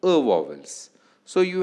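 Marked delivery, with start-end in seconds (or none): 0.0-0.1 "a" as a short, neutral uh; weak vowel. Shown as a demonstration. Lecturer contrasting it with strong vowels, "a" as weak uh. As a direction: say "a" as an unstressed schwa. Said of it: "These vowels are stronger than".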